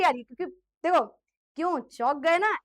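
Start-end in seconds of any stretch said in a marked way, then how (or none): 1.6-2.6 teasing. Shown as a demonstration. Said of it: "ऐसे वाला example है".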